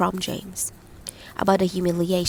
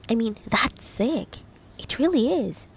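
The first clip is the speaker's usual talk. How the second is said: indignant; 4 semitones higher than usual. A narrator's reading. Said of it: "Holly said indignantly".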